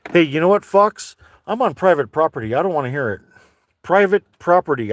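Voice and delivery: loud call across the yard at a fox. Real, not acted. Man in his truck shouting at a fox on his property, loud. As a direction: shout it out the car window.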